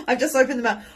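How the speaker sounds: high, loud laughing repeat; giggly self-correction. Real, not acted. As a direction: laugh as you correct yourself.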